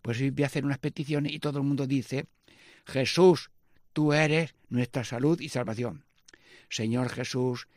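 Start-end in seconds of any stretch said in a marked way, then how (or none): 2.8-6.1 slow, measured prayer refrain; slow litany response. Acted.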